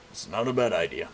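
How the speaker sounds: lightly voiced old man; a hint of an old man. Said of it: "went with old man voice there".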